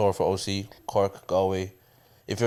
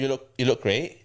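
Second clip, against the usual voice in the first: Northern Irish rising end. Retold or imitated. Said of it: "sounds like a question at the end".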